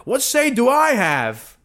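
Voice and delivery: sarcastic, high-pitched mock deference; mocking normie voice. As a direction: play the gullible believer, dripping sarcasm.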